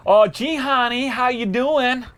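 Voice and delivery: hammed-up American accent; mock American accent. Shown as a demonstration. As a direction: put on your best cheesy American accent. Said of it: "give me your best American accent".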